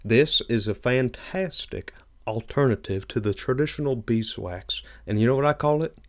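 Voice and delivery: a hint of a drawling southern huckster selling wax; Billy Bob Thornton. Cohost pitches carnauba wax as a folksy salesman, lightly voiced. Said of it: "That is a really good Billy Bob Thornton".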